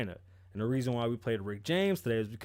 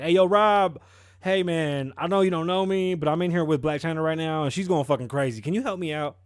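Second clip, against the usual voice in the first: raised-voice mock plea; louder, lightly acted appeal; pleading for help; 3 semitones higher, 6 dB louder than usual. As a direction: act out an urgent call to Rob, a touch frantic.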